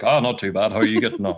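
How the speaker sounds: mirroring a deep talker, pitched low; put-on low-voiced small talk. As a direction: answer back just as deep. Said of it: "talking to me with a deep voice".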